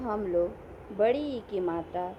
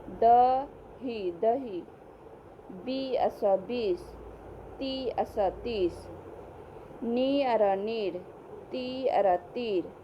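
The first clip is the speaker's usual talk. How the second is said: syllable by syllable, slowly and clearly; patient classroom spelling drill; slow teacher drill; slower than usual. Shown as a demonstration. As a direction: spell each word out slowly for young pupils.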